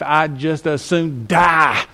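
slow, strained cry of resentment; a resentful servant's slow, pained outburst; bitter angry cry. Pretend. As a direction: drag it out like a sulking servant who would rather die. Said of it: "and you said".

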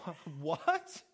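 mock disbelief; lightly acted shocked disciples; disciples stunned. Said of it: "disciples just going".

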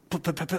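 quick repeated p sounds mimicking fast talk; rapid p stammer imitation. Shown as a demonstration. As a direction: spit out fast p-p-p-p to mimic panic. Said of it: "like real fast".

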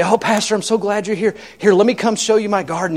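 high, sing-song welcome from an eager host; gushing host. Retold or imitated. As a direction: play the chirpy host showing off. Host greets hungry pastor, voiced.

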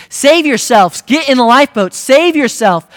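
urgent high, loud captain's shout; frantic emergency cry, pitched high; yelling. Acted. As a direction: yell to passengers to get to safety. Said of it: "he begins to yell and scream".

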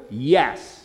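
low, firm falling YES; emphatic yes. Shown as a demonstration. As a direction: say "Yes" as a settled, final answer. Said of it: "it's emphatically yes".

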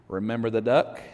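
low, knowing sister's threat; sly threat. Acted. Sister to brother, a low sly threat. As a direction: lean in and hold it over him.

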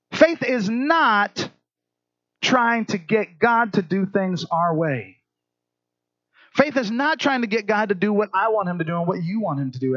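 stretched, emphatic teaching; stress on NOT. Real, not acted. Stressed slow teaching line.

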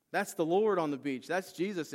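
excited realization. Retold or imitated. John to Peter on spotting Jesus, excited announcement.

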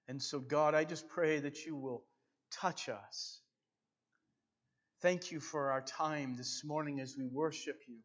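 building impassioned pastoral prayer; fervent prayer. Real, not acted. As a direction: pray aloud with rising fervor. Leads congregation in fervent prayer.

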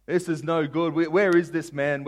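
loud, high, drawn-out outrage; acted fury, stretching the words; fuming David. David reacting to Nathaniel's story, fuming. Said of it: "David's fuming at the mouth".

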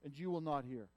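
loud, slow plea to God; crying out. Acted. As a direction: cry out to the Lord, drawn out. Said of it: "He cries out".

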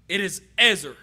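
ezer spoken low and careful, as a Hebrew word. Shown as a demonstration. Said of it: "I believe I pronounced that right".

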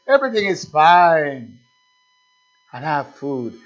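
lightly voiced, self-satisfied chuckling boast; smug comfortable man. Preacher mocking the comfortable idol-maker's smug boasting. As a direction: brag about your comfort like a content fool. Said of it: "He warmed himself and says".

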